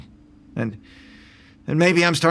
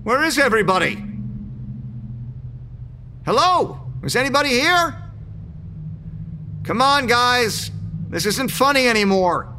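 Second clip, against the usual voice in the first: higher, calling into an empty building; anxious calling out; 5 semitones higher than usual. Acted. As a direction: call for anyone, growing uneasy.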